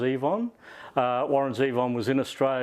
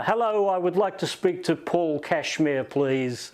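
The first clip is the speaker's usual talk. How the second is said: put-on Liverpudlian accent; 5 semitones higher than usual. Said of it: "Liverpudlian accent".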